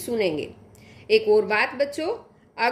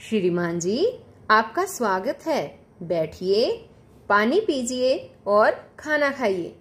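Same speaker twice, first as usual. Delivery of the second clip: sweet polite voice; 2 semitones lower than usual. Acted. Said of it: "मधुर एवं विनम्र आवाज में बोला".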